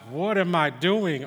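dismayed realisation. Retold or imitated. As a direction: catch yourself, drawing out the words in mild alarm. Father's sudden realisation, retold.

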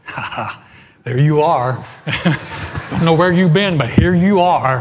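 loud, laughing happy-dog greeting. Pretend. Dog greeting its owner, loud and delighted. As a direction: gush like a dog thrilled you're home.

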